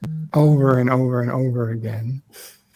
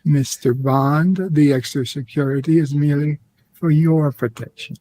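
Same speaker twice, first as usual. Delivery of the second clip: Bond villain voice. Acted. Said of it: "You sounded just like a Bond villain".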